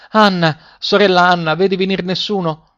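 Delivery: high-pitched narrated call. A narrator's reading. Wife to her sister on the tower, calling out. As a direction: lift the voice high to reach the tower. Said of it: "e poi chiamava".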